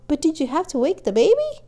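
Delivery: high, loud fond scolding; exasperated mother. A narrator's reading. Mother mock-scolds excited family.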